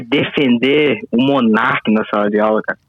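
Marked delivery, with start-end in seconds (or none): none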